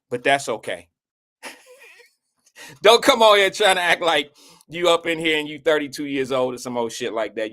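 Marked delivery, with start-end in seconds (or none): 2.8-7.5 laughing. Real, not acted. Teasing Sierra, laughing.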